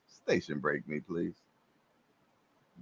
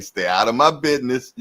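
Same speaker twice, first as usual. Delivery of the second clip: louder, higher and faster, brushing someone off; mock snappy retort; 4 semitones higher, 6 dB louder, faster than usual. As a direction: toss it back like a cheeky quote. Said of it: "They go like".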